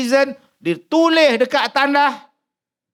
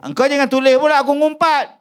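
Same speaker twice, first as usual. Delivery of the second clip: louder, fast, pushy; mock pushy bargain; 4 semitones higher, 5 dB louder, faster than usual. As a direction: lean on the angel to skip it. Talking to the angel. (berunding dengan malaikat dengan suara kuat dan laju)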